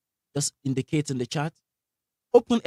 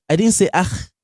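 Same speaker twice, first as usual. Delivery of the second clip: didnt punched higher and louder; stress on didn't; 4 semitones higher, 5 dB louder than usual. Shown as a demonstration. Teacher correcting students: emphatic didn't. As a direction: hit didnt hard. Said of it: "Did you hear that?".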